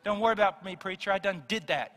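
near-plain casual retelling of "Don't worry about me, preacher, I done did that"; lightly voiced Southerner. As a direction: toss off "I done did that" almost in your own voice. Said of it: "most people do in the South".

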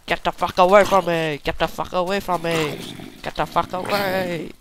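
angry repeated yell; yelling at mob. Real, not acted. Gamer shouting at a zombie to back off, angry yell. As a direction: drive the monster off, shouting.

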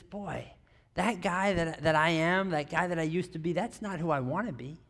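softly voiced private realisation; quiet regret. Scrooge seeing who he has become, quiet regret. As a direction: murmur it to yourself, regretful.

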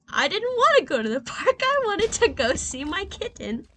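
high and loud, gleefully objecting; excited protest. Real, not acted. Telling her fiancé she wanted the kitten, gleeful protest. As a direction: blurt it out, half laughing. Laughing protest about the park.

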